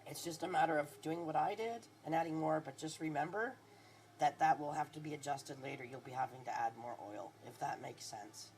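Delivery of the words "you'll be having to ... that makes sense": nodding off mid-sentence; half asleep. Real, not acted. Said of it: "I'm still half asleep".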